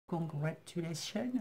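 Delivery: English word in a French accent. Real, not acted. Crafter reading the English label on a card, French-accented English. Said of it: "avec mon superbe accent anglais".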